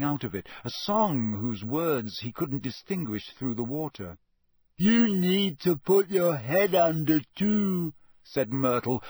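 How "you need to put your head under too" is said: put-on slow, high, louder ghost girl; bossy. Ghost instructs bathing Harry, bossy. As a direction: order him about with relish. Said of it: "enjoying bossing him around".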